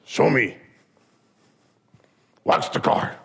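a hint of a clipped old karate master; Miyagi. Miyagi orders Daniel to demonstrate, terse master voice. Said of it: "you hear Miyagi go".

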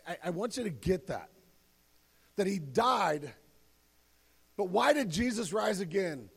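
ordinary talk, nothing marked

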